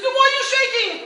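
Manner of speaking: loud, high laughing shout; shouted punchline. Retold or imitated. Performer shouting the punchline at Lenny. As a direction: blast the corny gag.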